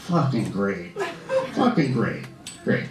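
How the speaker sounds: low flat-voiced disgust at his news; deadpan dismay. Comedian reacting to the model's parole news, deadpan. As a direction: mutter it, sinking.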